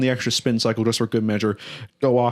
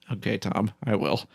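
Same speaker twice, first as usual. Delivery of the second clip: meek; 4 semitones lower, 6 dB quieter than usual. Retold or imitated. Meek reply to angry roommate.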